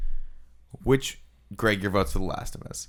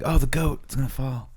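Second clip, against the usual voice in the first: mock comic alarm; 6 semitones higher than usual. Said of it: "you said that sort of comically".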